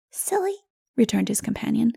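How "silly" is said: put-on high, small child's scoff; a little one brushing off his friend. Child scoffs at Odu, high and dismissive.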